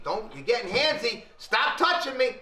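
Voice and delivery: high, loud panicked protest; yelling at the masseur to stop. Retold or imitated. Big Fat yelling at the masseur to stop, high and loud. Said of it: "The guy's saying".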